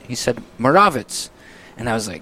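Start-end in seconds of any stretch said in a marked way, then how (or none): 0.6-1.3 Moravitz stressed in the middle, "muh-RAH-vits"; quoted native pronunciation. Retold or imitated. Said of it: "How do you pronounce it?".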